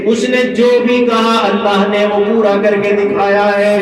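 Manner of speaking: full-force preaching. Acted. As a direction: declaim the story to a congregation, voice held up. Preacher retells story at full force. (پرجوش خطیبانہ انداز)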